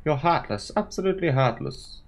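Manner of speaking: high, upset sobbing accusation; tearful anger. Acted. Crying Clarissa calling Veronica heartless. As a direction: spit it out through tears. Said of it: "Clarissa was crying".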